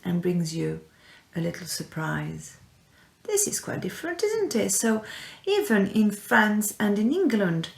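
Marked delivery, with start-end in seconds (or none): 3.2-4.7 mock amazement. Teacher marvelling at the tradition.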